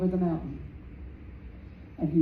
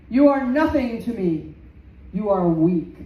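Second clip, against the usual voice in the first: insulting boast; 6 dB louder than usual. Acted. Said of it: "those insults".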